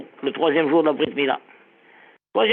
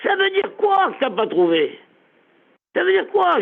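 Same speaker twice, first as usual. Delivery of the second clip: pitched-up demanding question; lightly voiced indignant master; mock indignant Abraham; 10 semitones higher than usual. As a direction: demand an answer, rising high. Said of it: "Abraham a dit à Eliezer".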